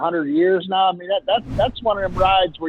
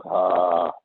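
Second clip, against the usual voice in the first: satisfied grunt; 8 semitones lower than usual. Retold or imitated. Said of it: "makes you go".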